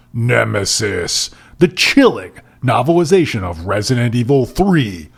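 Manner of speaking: dramatic promo read of book titles; hammed-up trailer announcer; mock announcer. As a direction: stretch each title, race the blurb. Reads out list of titles.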